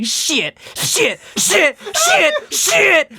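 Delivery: rising moans building to a cry; porn moaning. Retold or imitated. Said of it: "she just kept saying".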